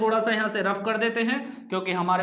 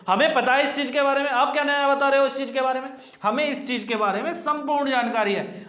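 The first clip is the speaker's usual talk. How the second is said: quick protest, pushed a little higher; indignant know-it-all pupil; 3 semitones higher, faster than usual. Acted. Pupil telling teacher they already know all this, mock-indignant. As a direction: protest in a rush, mildly put out.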